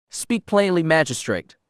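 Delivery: a Sith lord ordering a magistrate to speak plainly, commanding. Acted. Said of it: "she ordered".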